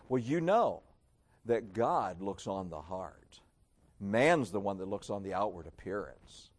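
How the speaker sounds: low, softened pious quote; put-on piety, kept low; mock spiritual. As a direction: imitate a so-spiritual believer, measured and low. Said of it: "Doesn't that sound so spiritual?".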